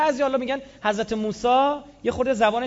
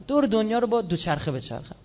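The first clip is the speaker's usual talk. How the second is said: mock show-off. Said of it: "قرتی بازی مثلاً".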